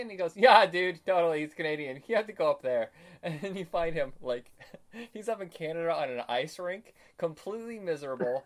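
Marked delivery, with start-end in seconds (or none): 0.4-2.9 mock eager confirmation. Superman's eager answer, retold skit.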